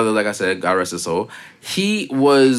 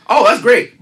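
mock fake delight; 10 semitones higher, 5 dB louder, slower than usual. Voicing rude TikTok persona.

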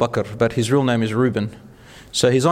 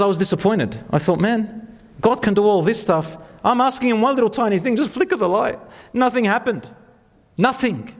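much higher voice, imitating a let-down friend; retold disappointment; 8 semitones higher than usual. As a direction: play the friend's mock dismay, pitched up. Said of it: "He was a bit disappointed".

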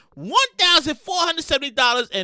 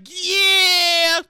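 bank breaking bad news; slower than usual. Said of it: "the bank was like".

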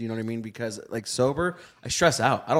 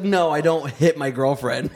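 retold indignant denial; 4 semitones higher, 3 dB louder, slower than usual.

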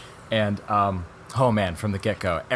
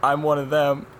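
louder, higher mock-tearful confession; raised, pretend-tearful voice; imitated crying; 6 semitones higher, 6 dB louder than usual. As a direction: act out the overcome test subject. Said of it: "the test subject starts crying".

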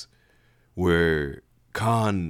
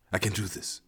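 assuring himself; 6 dB quieter than usual. Acted. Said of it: "he assured himself".

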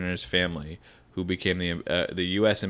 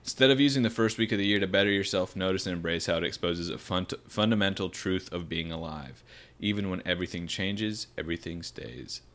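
measured reading, sinking softer at the close; reading aloud; 4 dB quieter than usual. A narrator's reading. Host finishes reading an article to co-hosts, reading aloud.

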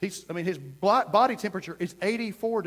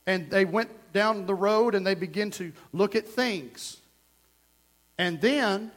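measured reading with a break before "And then"; natural reading pause. Shown as a demonstration. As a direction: read aloud, pausing after "things". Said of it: "it's just like a natural pause".

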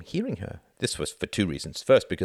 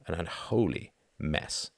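weary sigh; 5 dB quieter, slower than usual. Acted.

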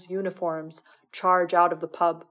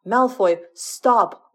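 higher, louder alarmed yell; yelling to stop; 3 semitones higher, 6 dB louder, much slower than usual. A narrator's reading. Potter shouting at Draco to stop, alarmed yell. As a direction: shout him down before he hurts himself.

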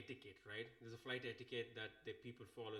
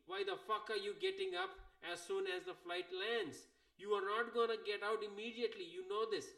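exasperated rant; 5 semitones higher than usual. Acted. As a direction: tell off the seat-jumper in mock outrage. Ranting at the rushing passenger.

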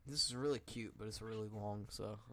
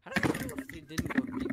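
fast shrieking question; high squeaky voice; 10 dB louder, faster than usual. Pretend. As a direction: squeak it out quickly.

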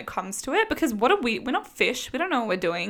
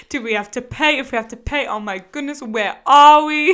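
mock freak-out; 6 dB louder than usual. Friend retells two girls rolling onto a car ferry, mock panic. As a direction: retell mild panic building to a loud wail. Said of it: "start freaking out".

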